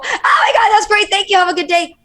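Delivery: mock convention-booth cheer, missing that the fan's dad died; autopilot cheer. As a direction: rattle off cheerful pleasantries without listening. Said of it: "in this mode of everything's great".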